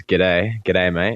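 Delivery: Aussie greeting. Retold or imitated. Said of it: "the all famous".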